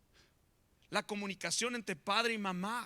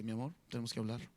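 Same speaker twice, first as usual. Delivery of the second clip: wife calling a meeting; 9 semitones lower, 5 dB quieter, much faster than usual. Retold or imitated. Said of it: "viene la esposa y dice".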